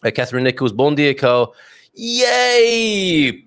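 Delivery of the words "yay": a high, bright burst of joy; excited cheer. Real, not acted. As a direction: cheer the news like popping a cork. Cheering a viewer's message.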